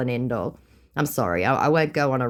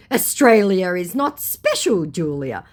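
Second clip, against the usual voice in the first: slow, louder, raised mock voice; mocked scammer; 6 semitones higher, 6 dB louder than usual. Scammer belittles her country, mocking. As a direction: spell out the put-down mockingly.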